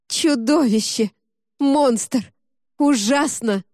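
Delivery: high, loud frantic cries; frantic self-loathing. Acted. Zoya claws her own face, crying out in loud self-loathing. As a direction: spit each word at yourself.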